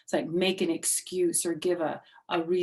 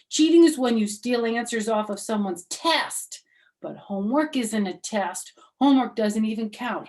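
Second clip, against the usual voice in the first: put-on higher, louder kid voice; little girl arguing; 5 semitones higher, 9 dB louder than usual. Junie B arguing with her teacher, higher kid voice. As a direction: argue your case like a stubborn kid.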